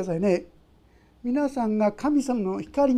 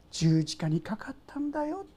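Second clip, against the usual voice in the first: softly whispered comfort; tender whisper; 6 dB quieter than usual. Pretend. God whispering to the sinner, a tender whisper. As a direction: whisper it like a gentle secret.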